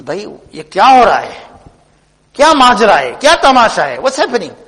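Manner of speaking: mildly acted bewilderment, pitch jumping up; lightly played amazement; astonished. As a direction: voice an astonished man demanding an explanation. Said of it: "Now he's astonished".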